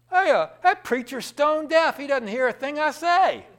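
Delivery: high, loud exasperated yell; frustrated shout. Retold or imitated. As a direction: bellow it in frustration. Frustrated woman yelling about preacher.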